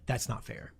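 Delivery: mock complaint. Shown as a demonstration. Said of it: "We say".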